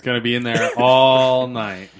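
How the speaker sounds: loud, laughing through the words. Real, not acted. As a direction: burst out laughing mid-line. Joking about song stuck.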